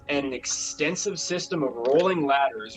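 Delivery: measured scene-setting read-aloud; game master narration. Acted. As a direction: read the room description to the players. Game master reads room description.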